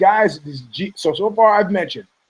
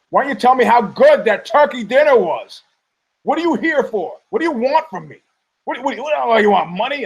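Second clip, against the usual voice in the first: retold outburst; 5 semitones higher than usual. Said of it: "retelling his outburst at her".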